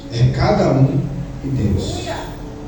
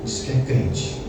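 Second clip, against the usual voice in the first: mocking gossip; 4 semitones lower, 10 dB quieter, slower than usual. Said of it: "Tá lá".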